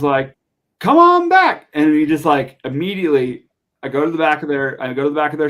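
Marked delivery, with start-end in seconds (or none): 0.8-1.7 high and louder, a cheerful, hearty Dale; Dale, welcoming. Retold or imitated. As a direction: beckon him in with a big friendly call. Dale invites him to the back.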